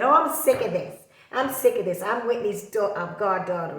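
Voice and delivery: imitating a fed-up celebrity, hammed-up; mock singer complaint. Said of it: "jumped up in the media and said".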